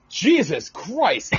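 slow laughing disbelief. Real, not acted. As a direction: laugh it out in shock. Laughs at strange noise.

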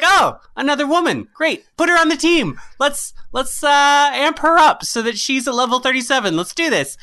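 high-pitched, excited self-talk; eager recruiting. Retold or imitated. Player finding another woman for the team, eager. Acts out recruiting a game character.

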